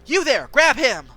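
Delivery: loud commanding call; barked order. Acted. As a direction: order the capture. Commanding the bodyguard.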